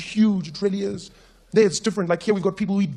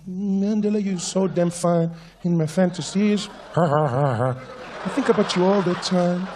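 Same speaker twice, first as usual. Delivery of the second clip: a singer/public; slower than usual. Retold or imitated. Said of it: "the singer comes out".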